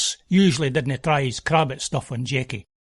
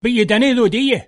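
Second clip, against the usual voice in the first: loud, high angry retort; bothy hand shouting down a rival, loud and high; 6 semitones higher, 4 dB louder, faster than usual. Acted. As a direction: shout it back at him, riled. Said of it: "and he shouts".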